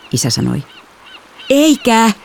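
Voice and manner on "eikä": higher-pitched quick protest; high, indignant refusal; protest said in unison. A narrator's reading. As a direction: blurt it out as a joint objection. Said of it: "me sanoimme yhteen ääneen".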